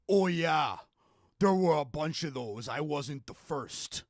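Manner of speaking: lightly voiced imitation, sinking at the end; Bret Hart. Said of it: "my best Bret Hart impression".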